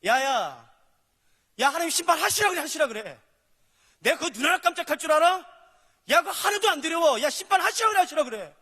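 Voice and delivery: loud, high mocking taunt at God; hammed-up defiant yelling; defiant scoffing. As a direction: shout the dare like an unbeliever. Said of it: "이 말이에요".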